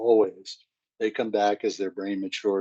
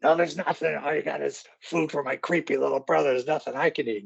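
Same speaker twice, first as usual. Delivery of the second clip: put-on higher, whiny teen girl complaining; sulky teenage daughter; 5 semitones higher, faster than usual. Teen daughter whining to her mom, higher and sulky. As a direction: pout it out like a grumpy teenager. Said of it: "teen daughter in pantry scene".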